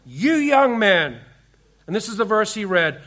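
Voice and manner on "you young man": slow, slightly raised preacher's call; mild mock shout, words stretched; retold shout. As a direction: imitate a farmer calling out from the pulpit, drawn out. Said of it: "literally shouted at him in the church".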